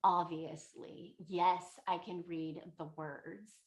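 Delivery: slow, deliberate mock disdain; condescending. Scholar to old woman doubting he can read, condescending. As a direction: spell out the obvious, imitating a snob. Student answers, insulted.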